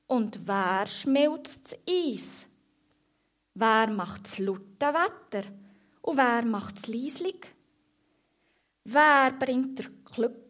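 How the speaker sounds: slow, measured poem recital; little stage declamation, question by question. A narrator's reading. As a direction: recite it slowly like verse to an audience. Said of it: "redet er wie vor einer Bühne oben runter".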